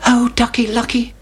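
high little chick voice; Chicken Licken. A narrator's reading. Chick runs to tell the king, high and urgent. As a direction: pipe it up like an alarmed chick. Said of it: "said Chicken Licken".

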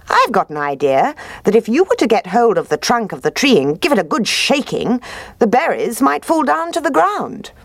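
high, smooth sly fox. Acted. Fox voiced in story.

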